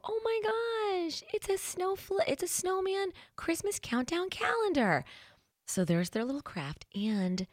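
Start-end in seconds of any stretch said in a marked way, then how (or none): 0.1-5.0 put-on excited kids. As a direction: squeal it like a thrilled little kid. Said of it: "they're gonna go".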